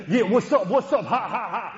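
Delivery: hammed-up rapper greeting, laughing; mock rapper. Boy greeting rapping friends, mock rapper swagger. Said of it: "stod jeg der og sagde".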